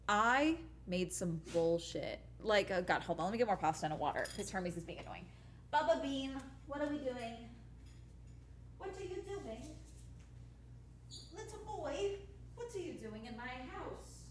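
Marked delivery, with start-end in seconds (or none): 5.7-14.2 pet talk. Real, not acted. Cooing at her pet.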